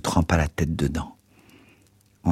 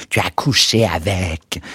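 understated scream; slower than usual. A narrator's reading. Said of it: "Elle hurla".

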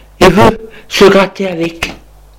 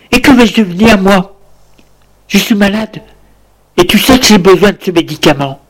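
pleading wife; 4 semitones higher, faster than usual. Acted.

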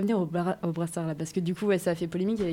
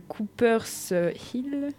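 English accent; 3 semitones higher, much slower than usual. Shown as a demonstration. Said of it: "mon accent anglais est fou".

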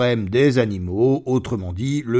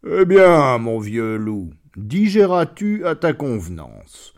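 falsely friendly lion; 4 dB louder than usual. Acted. Lion greets the wolf.

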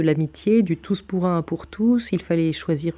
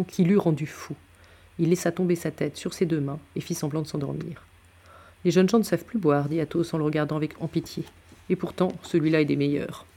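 measured audiobook reading with acted dialogue; story narration; faster than usual. A narrator's reading. Narrator reading Athos's tale to listeners, storytelling. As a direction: read the novel aloud, pausing between phrases. Reads a novel aloud.

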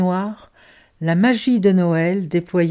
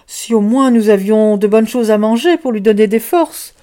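louder hopeful plea; worried child; 2 semitones higher, 5 dB louder than usual. Acted. Child hoping to feed the sick girl, louder. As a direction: another child wishing for food. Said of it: "dit un autre".

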